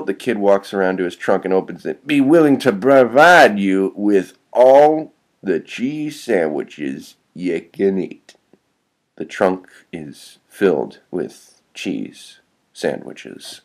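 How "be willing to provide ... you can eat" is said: slow, drawn-out offer; lightly voiced kid making his big pitch; kid recruiter. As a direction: lay the offer out slowly and grandly, dropping off at the end.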